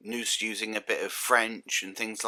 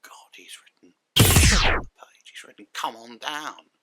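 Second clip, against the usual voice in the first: hushed, horrified whisper; whispered thought; 9 dB louder than usual. Retold or imitated. The showrunner reading the script, whispering in dismay. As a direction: breathe it out as an aghast private thought. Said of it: "she must have been thinking".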